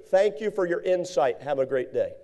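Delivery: soft, polite sign-off; polite brush-off. Shown as a demonstration. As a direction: gently close it down, softly. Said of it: "Here's what I always do".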